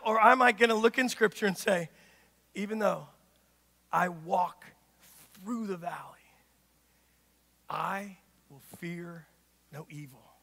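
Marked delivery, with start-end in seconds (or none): 2.6-10.3 slow whispered, low prayer; whispering the Psalm in trust; hushed psalm recitation. Acted. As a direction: breathe the psalm like a secret.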